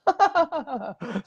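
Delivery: high laughter acting out disbelief; mock disbelieving laugh. His former self hearing about ghost clearing, scoffing laugh. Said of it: "I would have been like".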